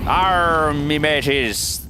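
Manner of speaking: hammy pirate growl; slow pirate arr. Pretend. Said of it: "You sounded like a pirate there".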